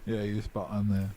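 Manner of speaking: talking around ice; mouth full of ice. Real, not acted. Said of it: "I got ice in my mouth".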